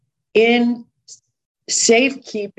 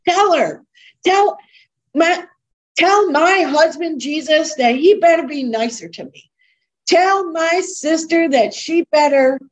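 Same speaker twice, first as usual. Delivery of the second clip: mock demanding prayer; 6 semitones higher than usual.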